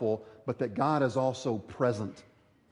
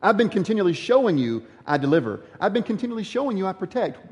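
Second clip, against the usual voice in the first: louder, insistent reassurance; God's rebuke; 4 semitones higher, 5 dB louder, faster than usual. Retold or imitated. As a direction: press the point as God. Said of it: "God tells them".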